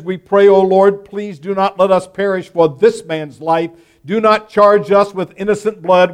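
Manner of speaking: loud, earnest pleading to the Lord; fervent prayer. Acted. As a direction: sailors begging God not to charge them. Sailors' desperate prayer read aloud.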